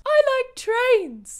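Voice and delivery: put-on loud slow dopey kid. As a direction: say it blank and slow. Impression request video.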